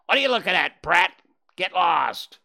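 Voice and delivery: the jay snaps at Bambi to get lost; snarled. Acted. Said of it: "and snarled".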